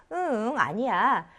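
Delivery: 응 drawn out as uh-uh before the denial; slow, disagreeing 응; negative 응. Shown as a demonstration. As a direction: hum a slow 응 meaning no. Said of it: "응 하면 노가 되는 거야".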